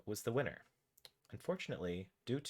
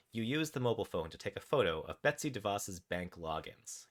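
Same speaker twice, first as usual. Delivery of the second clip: measured, animated game narration; story narration. A narrator's reading. Narrator tells players what their raccoon does, story narration. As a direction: read the adventure out with deliberate pauses. Reads interactive story aloud.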